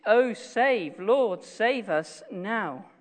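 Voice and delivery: emphatic plea, slowing down; retold cry for help. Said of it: "literally a cry to save".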